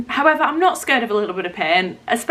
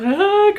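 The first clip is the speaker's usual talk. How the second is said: mock sob; 9 semitones higher, 3 dB louder than usual. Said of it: "and I was".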